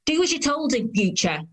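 acted cross parent; scolding. Woman scolding a child after slap.

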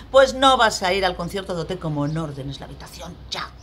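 angry parental threat. Acted. Parent snaps a threat at child.

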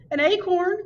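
hooting owl surprise. Acted. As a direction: hoot the question in disbelief. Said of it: "hooted the great horned owl".

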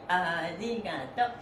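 usual speaking voice

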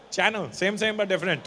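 lightly voiced Indian seller; channel, said as channel with a hard ch, insistent; seller insisting. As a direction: seller insisting the fake is the same, mild Indian accent. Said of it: "Do you mean Chanel?".

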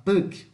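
puc said slowly and strongly; teacher isolating the strong syllable puc; stressed syllable alone, slow. Shown as a demonstration. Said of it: "o puc é mais forte".

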